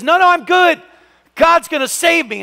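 high, bright-voiced cheerful no thanks; man on the roof waving off the helicopter, breezy and sure; stubborn refusal. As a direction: brush off the helper with cheery confidence.

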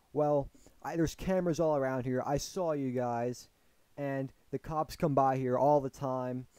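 loud, mildly mock-angry warning; imitating angry man. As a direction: warn them loudly, playing the mad man. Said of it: "this dude was mad".

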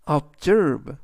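"observe" as ob-ZERVE, second syllable stressed. Shown as a demonstration. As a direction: punch the -SERVE of "observe". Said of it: "S 뒤에 있는 E의 강세가".

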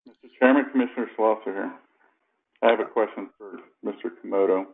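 thin voice down a landline; speaking through a landline call; over a landline phone. Real, not acted. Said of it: "I'm on my landline".

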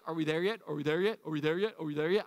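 mildly hammed-up pestering, same tune each time; imitated impatient travelers. Preacher teasing congregation as impatient travelers, lightly imitated pestering. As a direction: chant it over and over like a passenger on a long trip. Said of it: "Half of you would be like".

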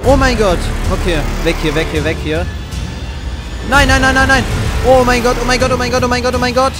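high panicked shouting; panicked screaming. Real, not acted. Panicked game fight.

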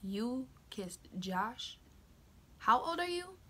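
slow stunned question, then the pitch jumps up high; mock disbelief at her age; imitating a stunned friend; shocked friend.

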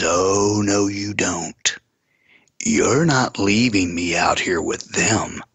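slow, drawn-out warning; slow retold refusal; retold menacing refusal. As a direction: stretch out the words as an imitated threat. Retells possessed woman's refusal to stay.

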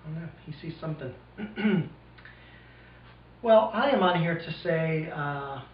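speaking around pipe stem; pipe in mouth. Real, not acted. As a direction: lips gripping pipe. Seen 3: Hand holds dark pipe at mouth throughout; lowered by +8.

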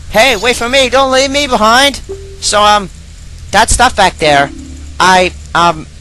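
put-on high, whiny fairy girl; fairy sidekick voice. Fairy girl pleads not to be left behind. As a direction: call after him in a high fairy voice. Voicing Tatl in dialogue.

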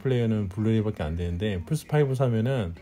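hushed voice. Real, not acted. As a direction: softly, still hushed. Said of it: "조용히 해".

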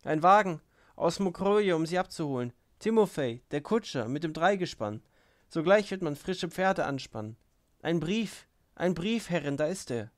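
high, excited announcement in short bursts; joyful, breathless. A narrator's reading. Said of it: "rief sie freudig und ganz außer Atem". (freudig aufgeregt, hoch und außer Atem)

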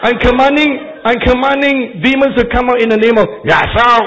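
loud, high, laughing mock command; hammed-up exorcist through a laugh; mock commanding preacher. Preacher joking about commanding demons in Ya so. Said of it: "You think I'm selling you some soap?".

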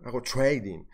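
"trading" pushed as English "t͡ʃweidin", mocking; forced English trading. Mocking traders who force an English accent on trading. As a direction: say "trading" like a show-off with fake English. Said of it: "lo dice forzadamente".

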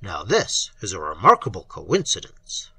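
low, silky purr. A narrator's reading. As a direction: purr it like a sly cat. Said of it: "purred Abnon Tha".

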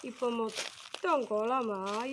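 a long, loud wail on "അയ്യോ", then a slow sad complaint; grandma mourning her ruined yard, hammed up for a child; mock sorrowful old woman's cry; sad lament. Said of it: "അമ്മൂമ്മയ്ക്ക് സങ്കടം വന്നു".

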